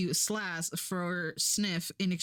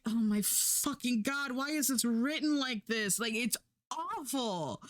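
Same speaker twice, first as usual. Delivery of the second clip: exasperated; 5 semitones higher than usual. Retold or imitated. Viewer reacting aghast to terrible writing, exasperated. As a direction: groan about it in dismay, slowing on the key words.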